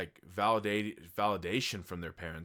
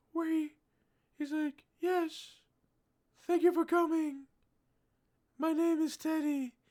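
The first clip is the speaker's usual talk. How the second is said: creepy, spooky put-on voice; 3 dB louder than usual. Retelling a scene where a scary figure greets a visitor: imitating Teddy Perkins' creepy voice. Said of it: "he's also doing this voice where".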